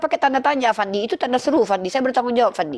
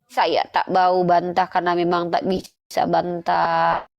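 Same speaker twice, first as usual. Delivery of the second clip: mock humble Christian; 6 semitones lower, slower than usual. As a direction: plead meekly as a defeated opponent. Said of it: "kalian tuh jujur aja gitu".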